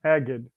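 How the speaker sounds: "Agid" echoed with a hard g; corrected name pronunciation. Shown as a demonstration. Host repeats guest's surname back, corrected pronunciation. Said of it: "Yeah, it'll be Agid".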